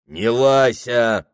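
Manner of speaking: slow, growled clerk comeback; bristling retort. Acted. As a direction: bristle back at her. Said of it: "щетинился приказчик".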